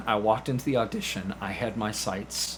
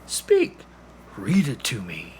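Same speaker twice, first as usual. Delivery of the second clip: DeLacy urging; 5 dB louder than usual. Acted. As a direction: coax the pupil, then command speak. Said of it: "and he says".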